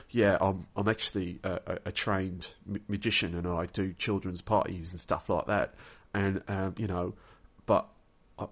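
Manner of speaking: lightly imitated English accent, deadpan account. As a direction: mimic the Englishman's accent, with halting pauses. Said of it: "it was actually an English accent".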